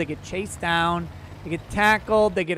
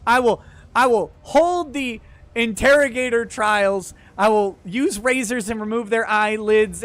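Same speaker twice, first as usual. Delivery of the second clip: mock furious rant; 3 semitones higher than usual. Over-the-top rant about TSA.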